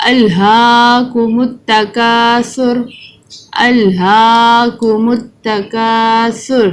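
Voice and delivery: slow, drawn-out tajweed recitation; Quran recitation. Shown as a demonstration. Teacher reciting the surah for children to follow, slow chanted recitation. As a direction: chant each word slowly for children to repeat.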